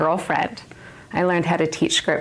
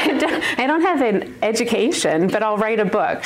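sarcastic agreement; 4 semitones higher than usual. Retold or imitated. Sarcastic retelling of her reaction.

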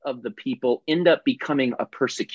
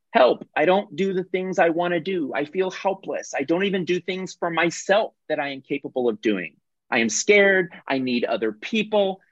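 higher, pleading victim voice; helpless victim; 5 semitones higher than usual. Acted. Speaker voicing a victim's inner script, pleading and high. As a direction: whine out your helplessness, like a stuck child. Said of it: "the mind of a victim".

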